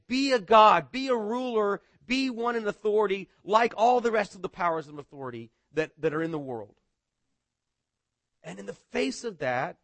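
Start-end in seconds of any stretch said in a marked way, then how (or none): 0.1-6.8 mocking powers. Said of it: "And they're saying".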